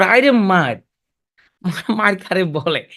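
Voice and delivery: lightly acted film-hero fight line, slowing right down; mock hero's challenge, second half drawn out; imitating Jasim. Film hero seeing his own blood, lightly mimicked challenge. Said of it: "যখন দেখতো এক ফোঁটা রক্ত বেরিয়েছে".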